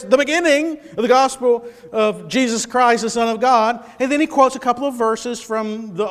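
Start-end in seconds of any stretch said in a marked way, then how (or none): 0.0-3.8 brisk quoting. Retold or imitated. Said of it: "as soon as he says".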